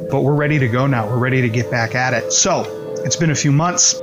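ordinary talk

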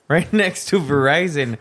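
mocking repeat. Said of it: "He says".

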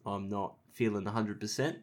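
blocked nose, sick voice; congested. Real, not acted. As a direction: talk through a stuffy nose. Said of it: "I'm quite congested".

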